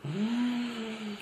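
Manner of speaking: chewing while talking; talking through a mouthful; mouth full. Real, not acted. Seen 2: Bites bread just before; closed, working mouth early in the words.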